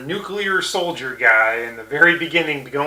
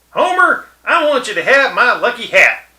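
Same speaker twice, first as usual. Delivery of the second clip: big, high, loud hollering Texan; loud Rich Texan impression; 7 semitones higher, 5 dB louder than usual. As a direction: belt it out like a whooping tycoon from Texas. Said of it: "The rich Texan".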